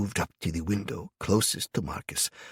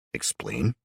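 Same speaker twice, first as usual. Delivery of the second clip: flat order; 5 semitones lower than usual. Acted. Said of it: "I ordered flatly".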